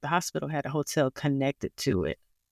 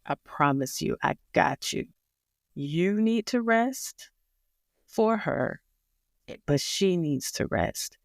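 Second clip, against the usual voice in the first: a touch of calm, soothing nurse; gentle reassuring nurse. Retold or imitated. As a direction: reassure tired parents kindly. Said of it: "he said it so peace-, nicely".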